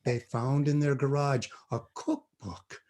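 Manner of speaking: slow hushed whisper; spooky whisper. Retold or imitated. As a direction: whisper it to scare the kid. Dad telling ghost story.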